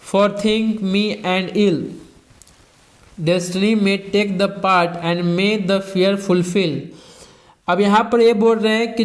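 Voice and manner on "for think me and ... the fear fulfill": slow, measured recital of verse; slow classroom poetry reading; poem reading. Acted. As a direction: read the verse slowly, line by line. Teacher reads poem lines aloud.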